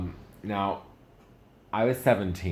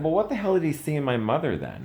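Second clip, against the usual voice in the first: much higher and louder disbelieving yell; incredulous outburst; 11 semitones higher, 7 dB louder than usual. Retold or imitated. Asking about his dad's choice of his mother, in a high, loud outburst. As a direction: blurt it out in disbelief. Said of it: "I was like".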